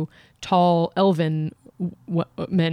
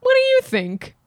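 slow, deliberate reading of a letter; slower than usual. Acted. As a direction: read it out slowly, savoring each line. Reads Dear Abby letter aloud.

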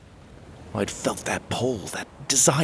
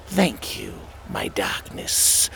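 Lunar Queen; 3 dB quieter, slower than usual. Acted. Queen bows to Dark One.

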